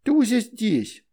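put-on high, slow little-girl voice; slow childish reply. A narrator's reading. Veronika pointing out the shadow is already here, high and slow. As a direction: state it plainly like a small child.

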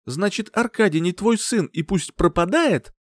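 mother shouting at her partner; angry outcry. A narrator's reading. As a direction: throw it back at him in rage. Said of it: "со злостью выкрикнула она".

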